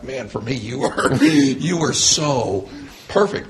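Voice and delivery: laughing, rising very high on perfect; gushing laugh. Retold or imitated. Client praising her therapist Winnie, laughing and soaring high. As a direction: gush through a laugh.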